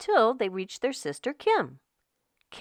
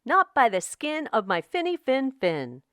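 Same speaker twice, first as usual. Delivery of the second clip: smart fish; 5 semitones higher than usual. Acted. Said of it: "the smart fish replied".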